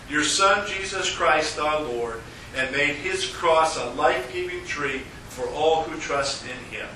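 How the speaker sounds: normal talking voice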